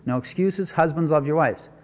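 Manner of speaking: usual speaking voice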